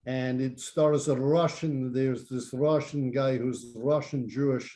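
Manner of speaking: lightly put-on Russian accent, articles dropped. Pitching a boxing film to friends in a Russian accent. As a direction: tell it like a Russian émigré, accent kept light. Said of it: "It's a pretty good accent".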